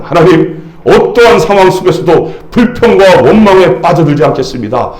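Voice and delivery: earnest pastor praying aloud; measured prayer gathering force; congregational prayer. Real, not acted. Leads closing prayer.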